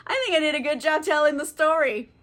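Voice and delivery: tipsy, slightly slurred. Real, not acted. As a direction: talk like you've had a few. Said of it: "because I am drunk".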